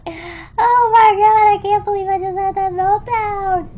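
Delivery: giggling at her own meltdown; laughing disbelief. Retold or imitated. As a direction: laugh through the words in disbelief. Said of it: "I'm just laughing at this point".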